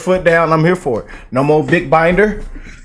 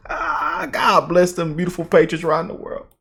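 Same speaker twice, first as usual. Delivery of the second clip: mock crying; 3 semitones higher, 4 dB quieter than usual. Host blessing the patriots with fake tearful sobs. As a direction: fake sob through the words.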